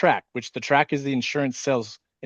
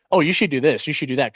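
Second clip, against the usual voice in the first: mock bossy leader; 2 semitones higher than usual. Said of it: "that leader who's like".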